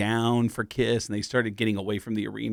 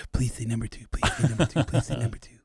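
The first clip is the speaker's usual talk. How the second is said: Dylan pleading; 4 dB quieter than usual. Pretend. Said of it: "I'll answer it as Dylan".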